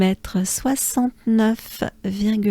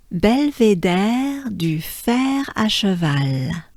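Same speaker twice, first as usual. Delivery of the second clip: Belvédère du fer à cheval run together more quickly; a little faster; slower than usual. Shown as a demonstration. Teacher saying the name faster for learners. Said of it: "If I go a little faster".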